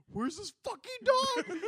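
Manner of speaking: high, laughing retold line. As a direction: laugh through the quote.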